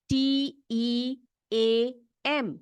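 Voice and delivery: each letter spaced out, very slow; spelling out slowly. Shown as a demonstration. Teacher spelling a word for her class, very slow. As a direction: spell it slowly so children can copy. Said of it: "spelling देख लो".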